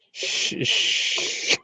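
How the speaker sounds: soft drawn-out shushing; hushing shh. Real, not acted. Hushing the group on a call, softly. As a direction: hush them with a long shh.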